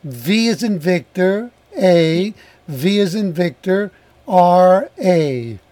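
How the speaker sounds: letter by letter, each one spaced; spelling it out. Shown as a demonstration. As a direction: spell the name out slowly for listeners. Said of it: "we'll spell Vavra for them".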